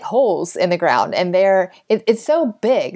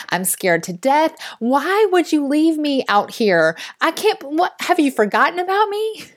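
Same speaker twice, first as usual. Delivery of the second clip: indignant squawking chicken; 6 semitones higher than usual. Acted. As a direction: play a panicked chicken scolding her owner in a high voice. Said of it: "if chickens could talk, she's like".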